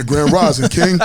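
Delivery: playful mock-solemn greeting impression; Umar. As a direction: put on someone else's voice for a funnier greeting. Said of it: "I do it in the Umar voice".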